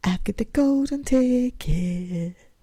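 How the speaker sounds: put-on high, very slow, stretched-out shouting call. Retelling running about the house after a lottery win: imitating her own shouting. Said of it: "I'm shouting".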